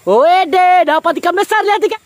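high, loud burst of excitement; thrilled shout. Real, not acted. Vlogger showing viewers a big catfish: high, loud, thrilled. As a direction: yell it out like you've struck gold.

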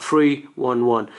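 slow, each digit separate; digits one at a time. Shown as a demonstration. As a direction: read the digits slowly one by one. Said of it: "you're just gonna say".

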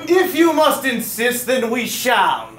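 lightly regal, slow and grand; a hint of a queen's proclamation; mock royal decree. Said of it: "He's the royal voice".

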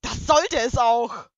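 withering. Acted. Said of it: "faucht Luna vernichtend".

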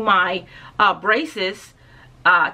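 muffled behind fingers; speaking through hand. Real, not acted. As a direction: hand covering lips. Seen 0: Hand covers mouth at start, then drops by 0.3s.

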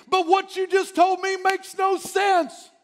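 high, slow, incredulous objection; doubtful Abram. Acted. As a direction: whine it back like a doubter.

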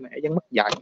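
usual speaking voice

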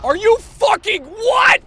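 stunned disbelief. Real, not acted. Disbelief at teammate's play.

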